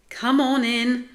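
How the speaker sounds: high, loud invitation; upbeat, carrying teacher's call; encouraging call. A narrator's reading. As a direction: call out cheerily to coax them in. Teacher coaxes cats into pool.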